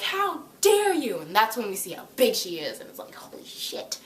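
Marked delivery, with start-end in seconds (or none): 0.0-1.2 much higher, louder, slow outrage; hammed-up roaring how dare you; mock enraged shout. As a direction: bellow it as the giant rises. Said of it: "stands up and she's like".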